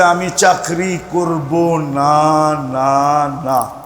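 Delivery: slow, stretched-out refusal with separate noes; stubborn refusal. Retold or imitated. Fed-up servant quits to the principal, slow stubborn refusal. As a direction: act out digging in, drawing out each no.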